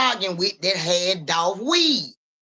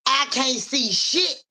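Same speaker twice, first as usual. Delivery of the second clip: "I can't see shit" very slow, higher, rising on "shit"; drawn out; 4 semitones higher, much slower than usual. Shown as a demonstration. Acting the reading, says "I can't see shit" slowly with a rising "shit". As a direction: stretch every word of "I can't see shit" and lift "shit".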